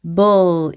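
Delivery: bull held into its closing L; final L demonstration. Shown as a demonstration. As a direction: draw out bull, ending on L. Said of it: "받침으로 들어가서". (bull 끝을 ㄹ 받침으로 길게)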